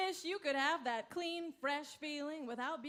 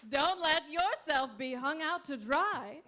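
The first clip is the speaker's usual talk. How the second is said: upbeat infomercial pitch; ad read. Acted. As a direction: sell the product with a grin.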